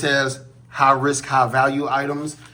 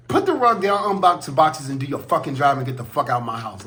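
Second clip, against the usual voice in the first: retold angry outburst. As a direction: retell chewing out a lazy mover. Retelling his angry outburst at mover.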